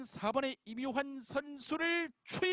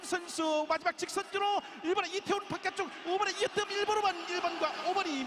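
excited race call; 5 semitones higher than usual. Real, not acted. Final straight of a race call.

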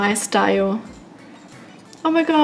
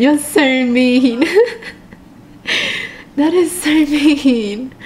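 mock-hurt whine; slower than usual. Real, not acted. Blaming viewers after pet died.

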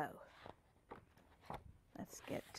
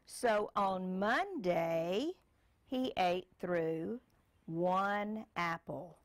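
put-on reading to a child; slower than usual. Parent reads picture book aloud.

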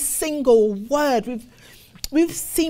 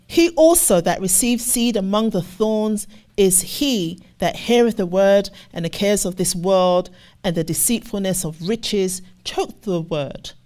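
scripture reading; 3 semitones lower than usual. Acted. Preacher reading the parable to the congregation, measured and deliberate. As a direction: read the verse out to the congregation.

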